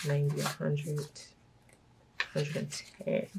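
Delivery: ordinary talk, nothing marked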